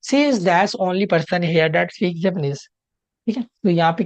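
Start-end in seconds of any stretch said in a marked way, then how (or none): 0.1-2.6 slow question read-out. Shown as a demonstration. Teacher slowly reading the exam question to the class. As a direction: read each word slowly and clearly. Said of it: "reading the question slowly aloud".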